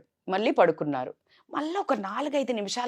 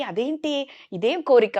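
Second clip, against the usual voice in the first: shocked; 7 semitones higher than usual. Retold or imitated. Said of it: "shock అయ్యి".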